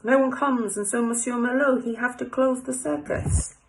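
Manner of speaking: French café owner, broken English; French accent. Acted. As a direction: put on a little French voice. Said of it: "I like my little French voice".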